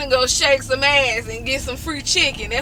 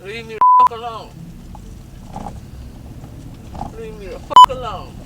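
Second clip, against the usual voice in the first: mock rude reply; 10 semitones higher than usual. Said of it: "What did they say when you asked for them?".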